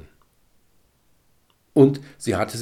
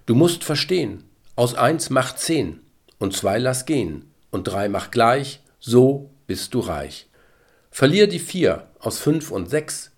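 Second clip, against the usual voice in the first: verse recitation; 2 semitones higher than usual. A narrator's reading. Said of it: "folgende Zeilen durch den Kopf gingen".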